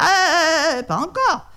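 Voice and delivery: high, loud alarmed cry; cries out. Acted. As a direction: stop the tiger mid-leap. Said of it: "celui-ci cria".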